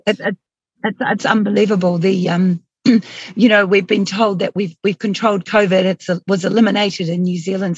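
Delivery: worn, hoarse voice after long speaking; losing voice, talking through hoarseness. Real, not acted. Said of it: "I'm losing my voice".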